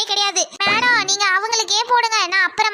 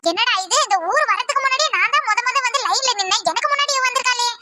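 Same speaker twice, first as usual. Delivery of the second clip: higher, aggrieved neighbour voice; grumbling woman in line; 4 semitones higher than usual. Acted. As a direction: complain about losing your spot. Complaining woman in queue.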